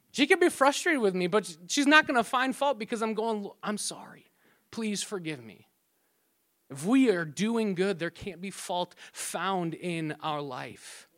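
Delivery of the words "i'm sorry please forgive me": softly asking forgiveness; mild gentle apology. Acted. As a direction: drop the volume and apologise gently. Acted apology to frustrated wife.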